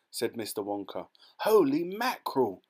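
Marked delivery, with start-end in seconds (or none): 1.4-2.6 high, loud stunned exclamation; startled cry. A narrator's reading. Mr Teavee crying out at the collision news, high and loud. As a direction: blurt it out in shock. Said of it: "cried Mister Teavee".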